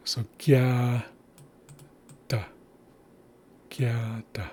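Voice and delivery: gya and da split by a pause, the last take whispered; gya da, syllables split. Shown as a demonstration. Teacher breaking gya da into syllables for students. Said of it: "get you to understand where accent placement is".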